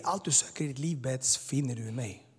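a touch of hushed tenderness; understated, tender and quiet; mild soft, loving voice. Retold or imitated. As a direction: gently retell the loving words. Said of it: "en mjuk, kärleksfull ton".

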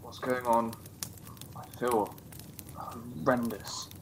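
weak groggy murmur. Acted. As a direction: wake up dazed. Waking drugged.

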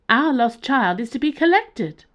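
high, loud alien, repeated insistently; high-pitched alien again. Acted. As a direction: insist on it as the same strange being. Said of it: "in a high-pitched tone".

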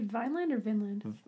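Vineland with a long i, then Vinland with a short i; two pronunciations. Shown as a demonstration. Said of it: "I've heard it pronounced both".

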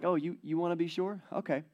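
playful angel. Acted. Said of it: "I don't think the angel is angry".

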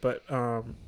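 loud breathing through the mic; heavy nose breathing. Real, not acted. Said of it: "bro, you're breathing so loud".

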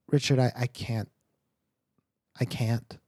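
breaking into a whisper; the words give out to a whisper; choked up. Acted. Mother telling her husband she can't bear to leave, whispering.

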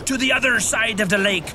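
lightly hammed-up pirate captain; Captain Peter growling out pirate talk. Captain Peter hails his disciples like a pirate. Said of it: "why are you talking like a pirate?".

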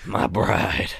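lightly put-on old-time husband; mock-formal, old-fashioned way of presenting a wife; eighteenth-century. Teasing co-host over calling his partner his bride, lightly eighteenth-century. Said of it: "Way to make it sound eighteenth century".

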